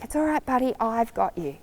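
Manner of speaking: calm a frightened friend gently; softly comforting a scared horse; nice voice. Shown as a demonstration. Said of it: "talking to you in a nice voice".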